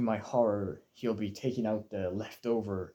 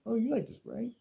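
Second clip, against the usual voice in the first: high, pushy mock dad voice; imitating dad; 14 semitones higher than usual. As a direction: ape his eager fishing for praise. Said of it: "And he was like".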